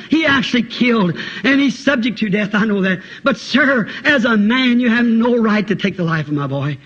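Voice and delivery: earnest plea for a son's life; urgent, imploring appeal; pleading mother. Acted. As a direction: beg for mercy. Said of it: "pleading of that mother".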